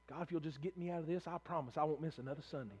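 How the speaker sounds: low, soft imitation of a private plea; murmured mock promise to God; mock bargaining prayer.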